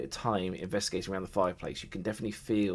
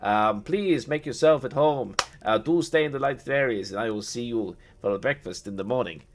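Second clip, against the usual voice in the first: higher, louder, courtly but rushed; hasty vampire lord; 4 semitones higher, 6 dB louder than usual. Acted. Strahd apologises to his guests before chasing Irina, courtly haste. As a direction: politely excuse yourself, itching to leave. Strahd excuses himself hastily.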